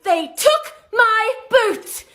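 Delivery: breathless British storyteller, high and drawn out; super out of breath in a British accent, telling a crazy story; high, slow, out-of-breath British voice; Jane. Acted. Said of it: "change my accent over to a British accent".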